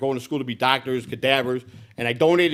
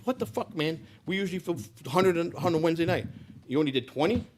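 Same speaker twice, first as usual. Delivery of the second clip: higher-pitched angry father grilling him; imitating dad's angry demand; 6 semitones higher than usual. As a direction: demand answers like the boss father. Father angry about low sales.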